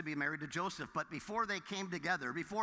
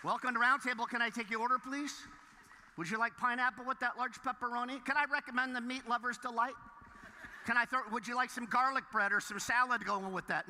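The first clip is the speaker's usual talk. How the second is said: drive thru speaker; 4 semitones higher than usual. Retold or imitated. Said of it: "saying stuff like".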